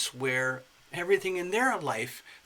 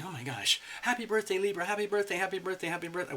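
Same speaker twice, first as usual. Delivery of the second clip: higher, sing-song happy birthday; giddy birthday joy; 5 semitones higher, faster than usual. Retold or imitated. Libra celebrating her birthday, higher sing-song glee. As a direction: chant it to yourself like a giddy kid. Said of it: "Libra, thinking".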